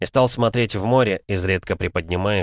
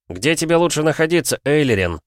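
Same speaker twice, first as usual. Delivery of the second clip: loud call; 8 semitones higher, 4 dB louder than usual. A narrator's reading. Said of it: "громко спросил Джоран".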